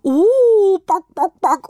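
loud high "ooh" into clucks; squawking chicken cry; hens calling out. A narrator's reading. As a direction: whoop like an astonished hen, then cluck. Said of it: "Da riefen die Hühner auch schon".

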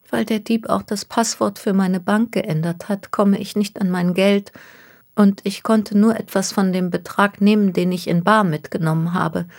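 anxious young woman, lightly voiced. Miss Takahashi describes her plight.

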